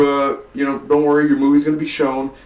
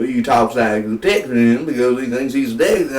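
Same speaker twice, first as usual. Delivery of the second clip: put-on Texas accent. Reviewer mocking Eric Bana's movie voice, exaggerated Texas accent. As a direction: mimic an overdone Texas accent. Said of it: "he does his Texas voice".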